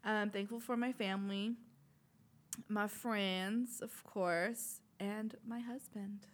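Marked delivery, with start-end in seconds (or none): 5.0-6.3 soft whisper, slow. Real, not acted. Newlywed thanking her husband, in a whisper. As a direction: whisper it shyly. Shy mention of new husband.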